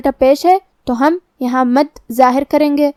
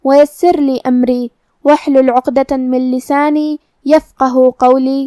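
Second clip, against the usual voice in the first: slow, reverent recitation of a verse; recited prayer; slower than usual. Acted. Teacher opening the lesson, slow reverent recitation. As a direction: intone the opening prayer slowly.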